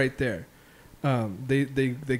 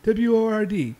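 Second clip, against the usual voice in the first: high, louder mock spelling; Steve Carell character; 9 semitones higher, 4 dB louder than usual. Retelling a Dinner for Schmucks scene, high strained spelling. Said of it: "And he's like".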